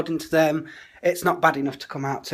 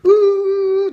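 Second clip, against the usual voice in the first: a loud, much higher ooh of surprise; sudden high ooh; 10 dB louder than usual. Real, not acted. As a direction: yelp it out like you've just remembered. Sudden exclamation mid-plan.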